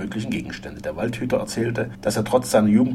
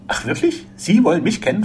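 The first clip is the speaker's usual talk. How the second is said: high-pitched, alarmed questions; startled; 9 semitones higher, 7 dB louder than usual. A narrator's reading. Frenchman alarmed that the forester knows him, startled. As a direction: voice leaps up in fright. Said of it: "fragte Gérard erschrocken".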